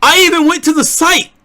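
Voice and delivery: high, loud indignant protest; hammed-up wounded protest. Continued mock outrage.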